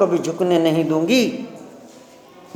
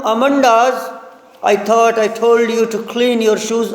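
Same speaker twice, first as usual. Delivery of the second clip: slow, measured reading of verse; poem recitation; much slower than usual. Acted. Teacher reciting the Amanda poem to students, slow and measured. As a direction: read each line slowly for the class.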